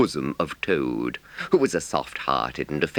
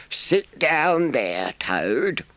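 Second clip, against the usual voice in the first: kindly badger; 11 semitones higher, much slower than usual. A narrator's reading. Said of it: "said the badger, kindly".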